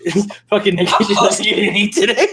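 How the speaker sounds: high, loud joking consolation; hammed-up high consoling; mock comfort. Shown as a demonstration. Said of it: "I'm telling you".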